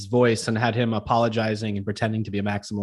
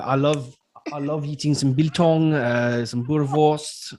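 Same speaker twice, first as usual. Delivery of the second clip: put-on South African accent; slower than usual. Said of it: "very good South African accent".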